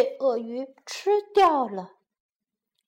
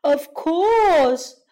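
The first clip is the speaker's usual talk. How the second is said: crocodile laughing; 3 dB louder than usual. Acted. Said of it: "鳄鱼笑道".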